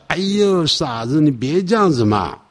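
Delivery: hammed-up playful chiding; playful lover's teasing. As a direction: tease a crying sweetheart lightly. Acts out the laughing lover teasing.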